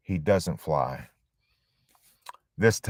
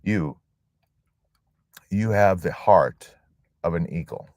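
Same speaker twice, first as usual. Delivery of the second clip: tender grandfather. Retold or imitated. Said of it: "he would say".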